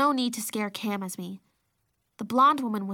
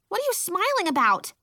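put-on high little-girl growl; a tiny tot growling; cute growl; 9 semitones higher, 4 dB louder than usual. A narrator's reading. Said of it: "baby Sophie growled".

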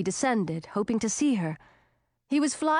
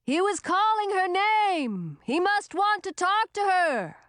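put-on young witch voice; 9 semitones higher than usual. A narrator's reading. Young witch Chlorine speaking.

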